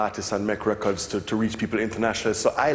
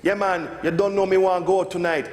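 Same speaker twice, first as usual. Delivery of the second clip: higher, stiff patois with a mock Japanese accent; reading patois from a book; 7 semitones higher than usual. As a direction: sound out phrasebook patois. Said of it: "and she close the book".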